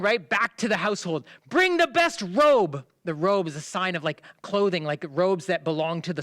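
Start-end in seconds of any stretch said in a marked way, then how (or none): 1.5-2.8 high, loud, slow command; shouted order, drawn out; yelling. Acted. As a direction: call it out to the servants. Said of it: "He's yelling".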